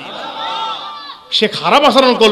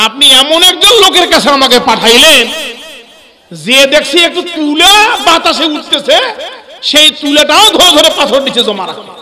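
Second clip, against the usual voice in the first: indignant beggar; 6 semitones higher, 4 dB louder than usual. Acted. Beggar complains to the Prophet.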